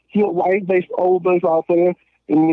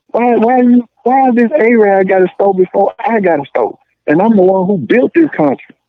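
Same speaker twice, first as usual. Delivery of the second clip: heated rant; 3 semitones higher, 6 dB louder than usual. Real, not acted. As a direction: push it out loud, getting worked up. Heated rant about boycotting.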